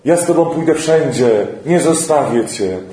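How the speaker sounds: loyal outburst, half amused; mild mock cry. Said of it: "znowu krzyczy i mówi". (Piotr woła do Jezusa z lekkim śmiechem)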